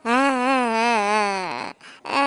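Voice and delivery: acted wail in drawn-out aahs; cartoonish bawling; crying. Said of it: "ஏன்டா தேவையில்லாம அழுவுற நீ". (நடிப்பாக ஆ-ஆ என்று அழுதல்)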